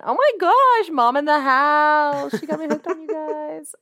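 high, excited squeal; gushing high and thrilled. Real, not acted. Excited shout-out to a mom.

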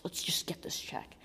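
whispered, defeated-sounding quote; very soft re-enacted whisper; retold tearful mutter. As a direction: whisper it as if too upset to talk. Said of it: "I'm, like, crying".

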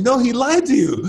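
high, loud mock scolding; retold angry yell. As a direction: snap back as the angry brother. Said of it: "yelling at me".

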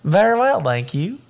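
badly faked Georgia accent, high loud start; hammed-up Georgia accent. Shown as a demonstration. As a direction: have a go at a Georgia accent, dropping on the last words. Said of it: "I have, like".

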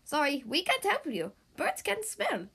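bird voice. Acted. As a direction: sound like a small apologetic bird. Birds answer Big Macs.

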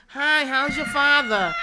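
very high, loud, slow sing-song concern; mocking nosy townie. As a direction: parody the nosy neighbor's fake concern, high and drawn out. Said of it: "why y'all talk like that".

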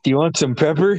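stifling a laugh while offering pepper; deadpan offer breaking into a laugh; laughing mock offer. Johnny offering pepper to a stoned friend, laughing. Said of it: "Johnny's like".

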